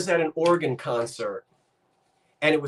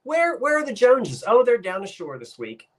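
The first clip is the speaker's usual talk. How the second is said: high-pitched gossiping local; acted local neighbour; 8 semitones higher than usual. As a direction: play a neighbour asking, then answering. Acts out locals using the phrase.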